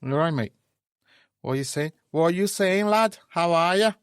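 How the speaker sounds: high, loud put-on Scouse; scouse accent. Shown as a demonstration. Host showing off his Scouse to his co-host, loud Scouse accent. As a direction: belt it out in a hammed-up Scouse. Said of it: "How's my scouse?".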